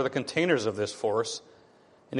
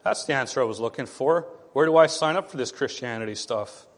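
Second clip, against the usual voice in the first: sarcastic skeptic. Retold or imitated. Skeptic mocking a pat answer, sarcastic. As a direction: scoff like a skeptic who's heard it all.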